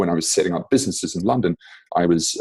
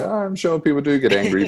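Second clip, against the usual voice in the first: posh British impression; 10 semitones higher, faster than usual. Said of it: "And it's like".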